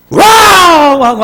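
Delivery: loud, high imitated wail; mock bawling. Woman crying to her pastor on the phone, mock bawling. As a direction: let out a long exaggerated bawl. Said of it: "전화를 우는데".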